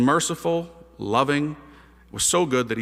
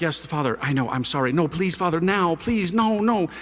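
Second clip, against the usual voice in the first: mom pleading by phone. Retold or imitated. Mom begging a second priest on the phone, increasingly insistent. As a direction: imitate apologies building into pleas.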